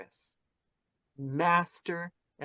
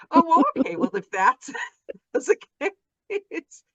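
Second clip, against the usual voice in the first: high, loud mock-relenting voice with laughter; hammed-up, high-pitched imitation of someone agreeing; imitating a friend giving in; 13 semitones higher, 11 dB louder than usual. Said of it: "She's like".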